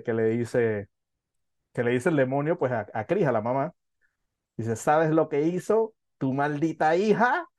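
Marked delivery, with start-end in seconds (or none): 4.8-7.5 demon's voice. Retold or imitated. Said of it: "me parece graciosa la pronunciación y el acento que tiene".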